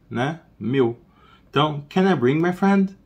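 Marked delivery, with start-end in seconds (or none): 1.9-3.0 raised model sentence. Shown as a demonstration. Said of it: "teacher models the sentence raised".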